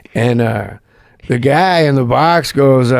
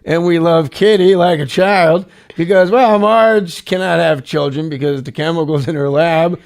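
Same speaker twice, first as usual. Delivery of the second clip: reading Norm's tweet. Retold or imitated. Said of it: "All capitals".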